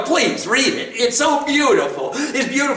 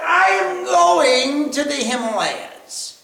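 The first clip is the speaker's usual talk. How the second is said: cloud's answer; 4 semitones higher than usual. Acted. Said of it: "And the cloud said".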